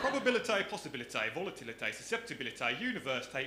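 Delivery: mock Dudley accent with broad AY endings; Dudley twang on each final syllable. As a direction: rattle off the list in broad Black Country. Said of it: "words I've been coaching him that you can't say".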